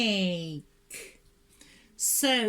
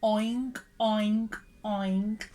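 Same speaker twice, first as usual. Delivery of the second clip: pig oink; 3 semitones lower, slower than usual. Shown as a demonstration. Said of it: "Oink like a pig".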